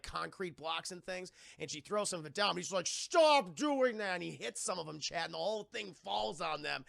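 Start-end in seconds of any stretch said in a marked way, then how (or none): 2.9-4.1 slow, stretched-out loud yell; hammed-up exasperated cry; mock angry shout. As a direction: drag it out in a raised-pitch bellow. Fred yells under attack.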